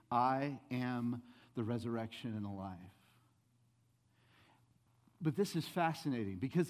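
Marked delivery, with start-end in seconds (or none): 0.1-2.8 comforting Jesus. Retold or imitated. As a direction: voice Jesus gently giving assurance. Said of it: "in the midst of your grief".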